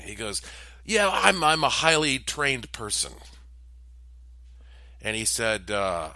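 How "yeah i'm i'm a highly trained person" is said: higher, louder proud boast; lightly voiced smug stranger; friendly stranger. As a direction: brag cheerfully about your training.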